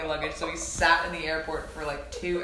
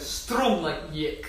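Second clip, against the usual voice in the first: slow mock-Russian; brief comic Russian accent; 3 semitones lower, much slower than usual. Shown as a demonstration. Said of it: "mine is probably Russian".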